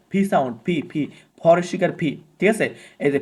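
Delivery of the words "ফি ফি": "ফি" as P with a puff of air; aspirated P. Shown as a demonstration. Teacher replacing the Bengali P sound, aspirated pronunciation. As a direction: say "ফি" as breathy-released "phee". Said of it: "পি কোনো sound ইংলিশে নাই".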